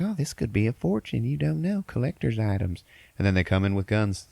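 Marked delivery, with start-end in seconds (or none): 0.0-2.8 excited teller. Retold or imitated. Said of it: "the teller's like".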